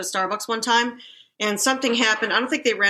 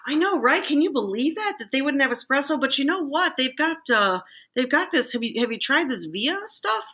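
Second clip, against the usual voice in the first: higher, bright sympathetic chatter; friendly stranger; 5 semitones higher than usual. Retold or imitated. Stranger calming an upset customer, cheery sympathy. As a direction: soothe him with cheery agreement. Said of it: "the guy behind him goes".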